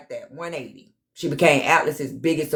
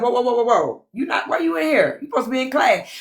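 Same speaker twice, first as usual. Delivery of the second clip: higher, teasing scold like a strict auntie; mock scolding mom; 4 semitones higher than usual. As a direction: shoo her off to class, playfully bossy. Scolding a student skipping class.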